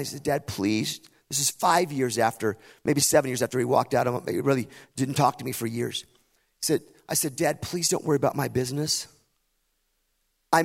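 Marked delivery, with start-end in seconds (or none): 0.2-1.0 gentle, restrained plea; said really kindly. Retold or imitated. Son kindly putting off his insistent dad, gently. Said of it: "said it really kindly". 7.4-9.1 said kindly. Retold or imitated. Son asking dad not to worry, kindly. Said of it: "I just said it really kindly".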